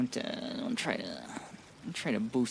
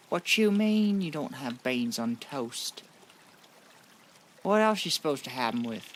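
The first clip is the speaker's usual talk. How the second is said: British impression; 2 semitones higher than usual. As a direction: do an exaggerated British accent. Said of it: "You guys like my British impression?".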